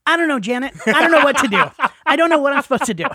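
high, loud mock freak-out; panicked dentist. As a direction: imitate a dentist losing it at the assistant. Dentist panics at his assistant.

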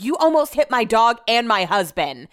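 moderately heated comeback, acted out; retold angry retort. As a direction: re-enact snapping back at a driver. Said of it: "You need to lower your voice".

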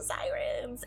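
breathy whispered aside. Retold or imitated. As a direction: drop to a whisper on the word. Whispered after the cheer.

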